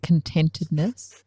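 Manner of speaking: put-on contentedness drawn out slowly in a Kiwi accent. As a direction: contentedness with New Zealand vowels, questioning rise. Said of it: "with a New Zealand accent".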